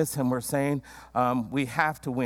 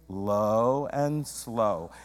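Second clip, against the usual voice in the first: very slow, lower pitched; 4 semitones lower, much slower than usual. Shown as a demonstration. Preacher leading the congregation, very slow and low. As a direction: stretch it out, low and calm. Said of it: "Would you say that with me?".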